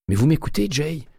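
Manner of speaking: high, exasperated exclamation; exclaiming. A narrator's reading. Terry exasperated that Winston still doesn't understand. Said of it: "s'exclama-t-il".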